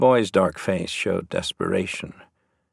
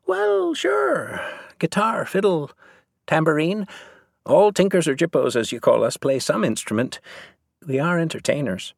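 put-on high-pitched Irish Traveller boy, proudly boasting; cocky tinker boy; 8 semitones higher than usual. A narrator's reading. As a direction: open very high, rattle off the boast.

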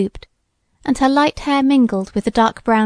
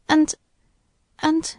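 trailing off dismally; 6 semitones higher than usual. A narrator's reading. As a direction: let the words peter out in dismay. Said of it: "her voice trailing off rather dismally".

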